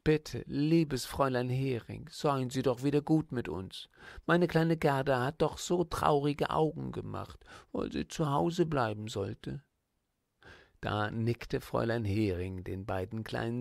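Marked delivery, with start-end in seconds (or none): 0.0-9.6 put-on pleading little girl, a touch higher; lightly voiced little girl pleading; begging little girl. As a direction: beg the teacher sweetly like a small child.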